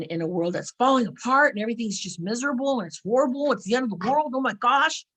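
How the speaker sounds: swooping hammed-up lament; mock despair. Asking listeners if they think the world is ending, mock despair. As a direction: pile up the woes, rising to mock alarm. Mimicking a doom-laden believer.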